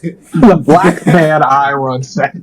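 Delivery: put-on slow, drawn-out Norwegian accent; dragged-out mock Norwegian accent. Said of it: "your Norwegian accent".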